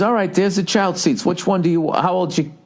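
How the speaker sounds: high-pitched helpful employee imitation; rental clerk's voice. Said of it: "he goes".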